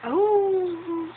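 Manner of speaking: high, drawn-out mock spooky "oooh"; a playful long howl to scare. Parent showing baby how to scare, playful spooky howl. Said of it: "Takutin mo nga ako".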